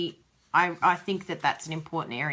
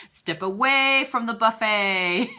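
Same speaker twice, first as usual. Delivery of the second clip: mock stern warning; 2 semitones higher, 5 dB louder, slower than usual. Shown as a demonstration. Repeating the buffet line for a listener as a slow loud warning. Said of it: "you like the step away from the buffet".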